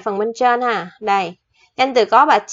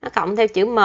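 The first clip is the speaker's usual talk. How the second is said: slow dictation; slower than usual. Shown as a demonstration. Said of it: "Mình sẽ ghi chỗ này nha".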